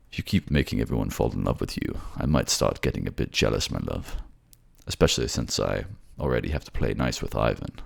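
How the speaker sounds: mock jealousy with affection; jealous lover. Lover teases partner about making everyone fall in love, mock-jealous.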